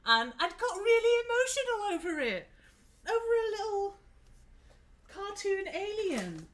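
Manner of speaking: high, breaking emotional voice. Real, not acted. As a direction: gush with overwhelmed feeling. Emotional confession, voice rising high.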